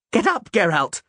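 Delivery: high, urgent shout; troubadour's yell. A narrator's reading. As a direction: yell to get him moving. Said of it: "the troubadour yelled".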